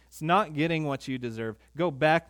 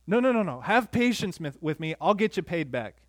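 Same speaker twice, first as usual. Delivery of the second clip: pleading servant; 2 semitones higher than usual. Acted. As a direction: plead for your life with the king. Servant begging the king.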